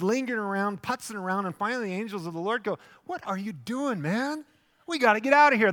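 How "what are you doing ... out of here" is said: high, loud, exasperated hurry-up; urgent shout. Retold or imitated. Angels urging lingering Lot out, loud and urgent. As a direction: yell at him to move now.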